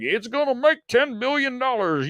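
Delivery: high, gushing mock hype. Mocking Film Twitter hyping Avatar, high gushing voice. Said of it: "everyone on Film Twitter is like".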